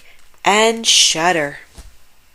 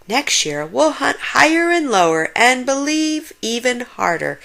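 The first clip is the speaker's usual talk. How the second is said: eager cry; 6 semitones higher than usual. A narrator's reading. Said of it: "cried Grandfather".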